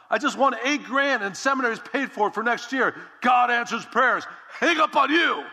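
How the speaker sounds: triumphant shout. Retold or imitated. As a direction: crow the victory down the phone. Shouting win to dad.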